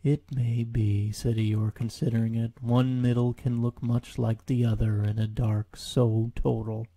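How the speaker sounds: slow, sighing donkey voice; weary Eeyore. Acted. Eeyore hearing the sound approach, slow and weary. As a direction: droop through every line.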